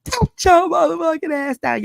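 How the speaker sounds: loud, high yelled order; a dog charging at my daughter, so a booming command; thunderous command. Retold or imitated. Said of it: "my voice was like thunder".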